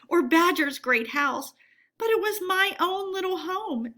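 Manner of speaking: high, tearful pleading with a catch in it. Acted. Mole laments his lost home to Rat, high and tearful. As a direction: Mole begs Ratty through sobs, high and tearful.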